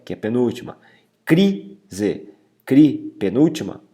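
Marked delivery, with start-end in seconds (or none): 1.2-3.1 crise split, CRI pitched high; stress on CRI. Shown as a demonstration. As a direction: lift CRI in crise, then repeat it alone. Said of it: "a mais forte também".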